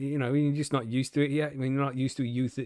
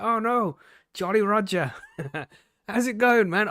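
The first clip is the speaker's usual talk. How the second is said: raised, louder barman greeting; cheery mock barman welcome; 7 semitones higher, 4 dB louder than usual. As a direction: greet the old pirate with a big cheery hello. Barman greets pirate in joke.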